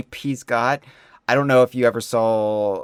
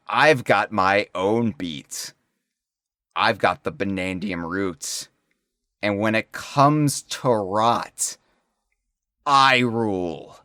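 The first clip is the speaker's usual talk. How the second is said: villain voice; slower than usual. Acted. Reading K. Rool's villain lines.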